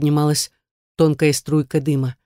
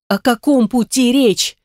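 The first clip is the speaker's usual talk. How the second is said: nervous question; 7 semitones higher, 3 dB louder than usual. A narrator's reading. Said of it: "тяжело сглотнула".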